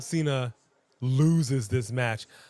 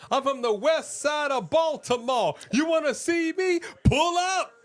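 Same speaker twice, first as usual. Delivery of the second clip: much higher, cocky street challenge; tough-talking pastor; 13 semitones higher than usual. Retold or imitated. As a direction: dare them to pull up. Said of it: "You like that pastor? We're like".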